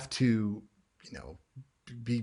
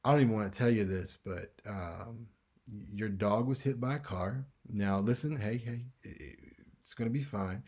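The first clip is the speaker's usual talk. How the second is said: gentle bad news; 3 dB quieter than usual. Shown as a demonstration. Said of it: "If it's the dog".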